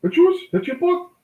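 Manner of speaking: high, loud, slow amazed questions; Billy discovering the book, high astonished questions; surprised Billy. Retold or imitated. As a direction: sound truly impressed.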